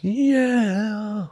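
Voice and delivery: high eerie falling yeah; creepy drawn-out high yeah; scary voice. Acted. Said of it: "that scary voice".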